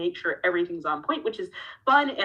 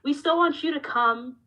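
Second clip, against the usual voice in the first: patronize her with fake comfort; mocking the bosses; 7 semitones higher than usual. Bosses soothing Ember after pulling her, in a mock placating voice. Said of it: "And they were like".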